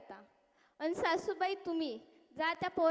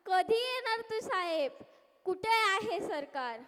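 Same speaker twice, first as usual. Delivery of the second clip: despairing wail; 2 semitones higher than usual. Acted. Villager wailing at the floods.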